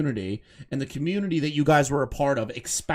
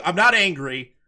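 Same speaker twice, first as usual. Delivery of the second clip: mocking quote; 3 semitones higher, 5 dB louder than usual. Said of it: "so you're saying".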